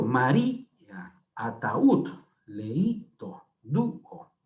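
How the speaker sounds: "María, ataúd, leíto, dúo" slowly, each hiatus split into separate syllables; teacher's syllable-by-syllable reading of "María, ataúd, leíto, dúo"; hiatus broken apart. Shown as a demonstration. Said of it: "se rompe el diptongo y se forman dos sílabas".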